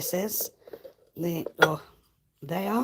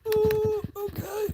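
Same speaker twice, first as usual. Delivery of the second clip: squeaky mock okay. Mock squeaky reply as cameraman.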